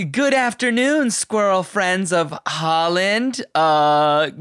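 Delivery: lightly voiced drag host greeting; slow, high, grand host voice; RuPaul impression. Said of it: "RuPaul's like".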